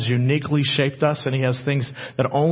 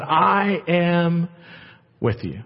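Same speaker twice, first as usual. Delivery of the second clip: slow tender promise; much slower than usual. Acted. God reassuring Isaac.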